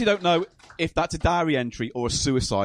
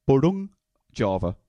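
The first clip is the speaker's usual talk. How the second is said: booting noise; 3 semitones lower than usual. Pretend. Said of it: "wait on me booting".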